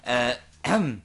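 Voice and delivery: squirming while tickled; talking through tickling; being tickled. Real, not acted. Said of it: "hör auf mich zu, zu kitzeln".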